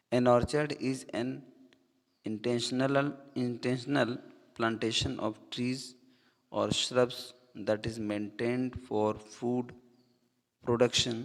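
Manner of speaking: slow, careful reading of an English definition. Shown as a demonstration. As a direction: read it out word by word for the class. Reads English definition slowly. (परिभाषा धीरे-धीरे पढ़कर सुनाना)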